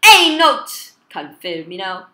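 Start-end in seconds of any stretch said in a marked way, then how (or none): 0.1-0.9 loud, high shout; yelled game name. Real, not acted. Player commanding the game by voice, yelling. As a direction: yell it high at the screen.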